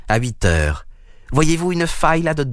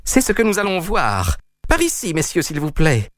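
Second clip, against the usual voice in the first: higher, pressing, indignant call to the police; rally the officers against the intruders, outraged; outraged householder calling for help; indignant appeal; 4 semitones higher than usual. Acted. Peters calls police against intruders.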